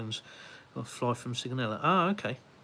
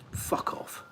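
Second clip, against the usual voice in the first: whispering; 5 dB quieter than usual. Real, not acted. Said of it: "unvoiced whisper".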